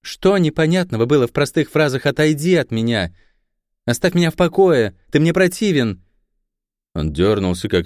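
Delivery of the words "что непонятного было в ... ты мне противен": an icy, hardened rebuke; harder voice. A narrator's reading. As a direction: throw his old words back at him. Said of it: "голос ... стал жёстче".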